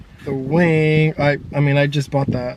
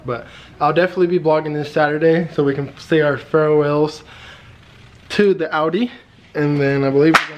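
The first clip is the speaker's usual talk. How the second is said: talking around a retainer; slightly slurred through retainers. Real, not acted. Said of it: "Sorry, I got my retainers in".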